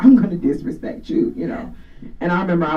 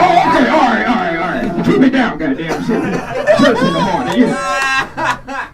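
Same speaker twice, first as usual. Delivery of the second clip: higher, louder scolding mom; mock scolding mom; 8 semitones higher, 4 dB louder than usual. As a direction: snap at the kid like an annoyed mom. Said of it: "She was like".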